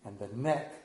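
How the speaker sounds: put-on a light Greek mother accent; lightly voiced Greek mother, calm and knowing. Preacher imitating the Greek mother from the movie, light accent. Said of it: "I think I can get the accent right".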